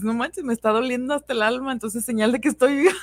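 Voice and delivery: half-joking lament breaking into a laugh; amused dramatic quote. Retold or imitated. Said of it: "pues dices". (lamento exagerado entre risas)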